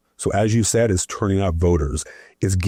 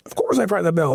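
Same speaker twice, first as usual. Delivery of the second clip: mock indignant; 11 semitones higher than usual. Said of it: "they're screaming and just anger".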